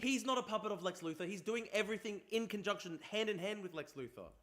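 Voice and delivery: high, insistent contradiction; heated rebuttal. Real, not acted. Streamer contradicting a video about Lex Luthor, heated. Arguing back at video he watches.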